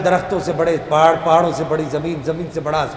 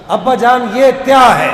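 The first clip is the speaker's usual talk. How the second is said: put-on a light childish lisp, slightly higher; 7 semitones higher, 6 dB louder, slower than usual. A narrator's reading. Father and son in the forest, the son asking with a child's lisp. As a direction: ask like a small child. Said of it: "اپنی توتلی زبان میں پوچھا".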